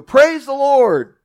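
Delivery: high, loud, slow call to heaven; drawn-out high praise shout. Acted. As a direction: lift it up to the sky like a joyful old lady. Old lady calling to sky.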